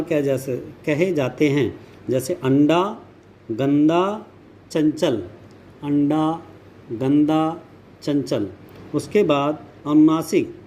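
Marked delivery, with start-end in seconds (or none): 2.3-5.2 अंडा, गंदा, चंचल with the air through the nose; anusvara pronunciation. Shown as a demonstration. Teacher demonstrating anusvara, अंडा, गंदा, चंचल sounded through the nose. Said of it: "हवा केवल नाक से निकलती है". 5.8-8.5 अंडा, गंदा, चंचल with the air through the nose; anusvara pronunciation. Shown as a demonstration. Teacher demonstrating anusvara, अंडा, गंदा, चंचल sounded through the nose. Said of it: "हवा केवल नाक से निकलती है".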